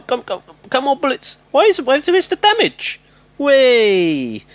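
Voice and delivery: high-pitched panicked yelp; strained, high cry of distress; distressed squeal. Real, not acted. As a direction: squeak out the panic as it all goes wrong. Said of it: "Can you hear the distress in my voice?".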